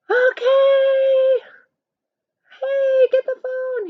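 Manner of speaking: loud high yell for someone; mock yell at a brother on the phone. Shown as a demonstration. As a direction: shout across the house, high and loud. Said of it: "You don't want to yell".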